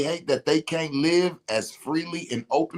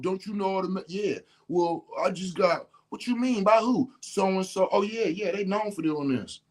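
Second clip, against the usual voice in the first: higher-pitched retelling of a back-and-forth; mock inbox complainer; 8 semitones higher than usual. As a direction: lightly act out agitated messages, pitched up. Acting out inbox messages from people.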